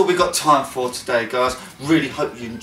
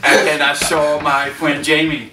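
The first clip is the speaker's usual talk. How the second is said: put-on Tennessee accent; 2 semitones lower than usual. Telling about the day in the challenge, mock Tennessee accent. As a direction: try a country American accent. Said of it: "I need to hear a Tennessee accent".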